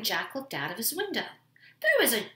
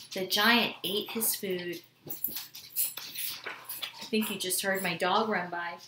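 ordinary delivery, nothing marked

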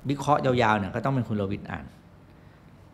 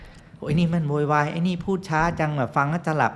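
higher-pitched imitation of a complaining viewer; mock grumbling viewer; 5 semitones higher than usual. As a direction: gripe like an unimpressed audience member. Imitating viewers who dislike a host.

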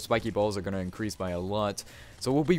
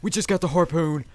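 much higher, loud victory yell; overjoyed shout; 6 semitones higher, 6 dB louder than usual. Real, not acted. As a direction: scream it out, real joy at last. Finally gets the wanted harpoon.

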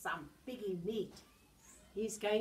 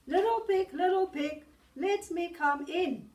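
loud, higher booming wolf call; 7 semitones higher, 10 dB louder than usual. Acted. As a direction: shout it up the door like the big bad wolf. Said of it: "said the wolf".

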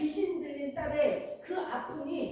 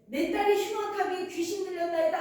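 higher-pitched mock cry for help; retold crying out; 4 semitones higher than usual. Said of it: "하고 막 소리를 지르는 거예요". (부르짖는 흉내)

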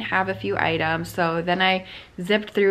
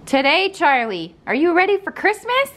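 much higher, sing-song voice for a dog; high pet-talk voice; 10 semitones higher than usual. Real, not acted. Talking to her dog.

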